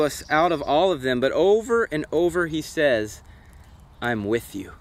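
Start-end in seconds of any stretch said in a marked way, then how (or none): 4.0-4.7 low, soft and reassuring; gentle reassurance. Acted. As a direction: give a quiet, lower-pitched promise of comfort. Preacher voices God's promise.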